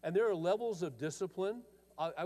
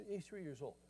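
ordinary talk

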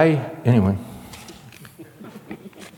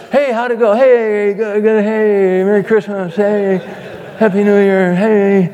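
high, bright put-on cheer masking dread; father hiding money worries from the family, forced cheer; forced holiday cheer; 6 semitones higher than usual. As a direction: fake cheer for the kids at Christmas. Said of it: "I gotta screw up my courage".

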